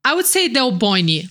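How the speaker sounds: Del Boni with the stress on BO; Brazilian pronunciation. Shown as a demonstration. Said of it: "put the emphasis on the bo".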